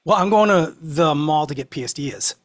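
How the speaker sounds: Boston accent. Shown as a demonstration. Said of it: "I'll try my best".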